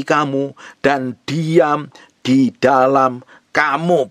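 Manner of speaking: slow, measured Bible reading from the pulpit; preacher reading John chapter fourteen aloud to the congregation, slow and solemn; solemn scripture reading. Acted. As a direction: read the verses slowly and reverently. Reads scripture passage aloud.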